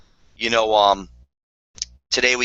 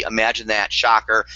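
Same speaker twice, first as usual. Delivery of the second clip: sarcastic. Real, not acted. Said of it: "I know I'm being a little sarcastic".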